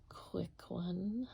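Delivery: soft tired whisper; sleepy whisper. Real, not acted. Extra sleepy painter whispering to viewers late at night. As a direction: trail off into a whisper. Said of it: "extra sleepy tonight".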